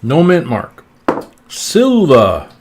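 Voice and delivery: talking with a mouth full of cake; words round a bite of cake. Real, not acted. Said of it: "shoved the cake in my mouth again".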